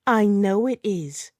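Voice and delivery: mild snarl, slow and drawn out. A narrator's reading. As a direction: snarl it slowly, with restraint. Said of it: "she snarls".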